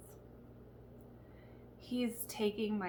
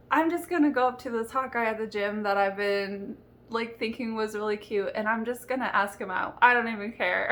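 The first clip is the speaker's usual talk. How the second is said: excited rant; 6 dB louder, faster than usual. Retold or imitated. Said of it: "I called on my dad and I was like".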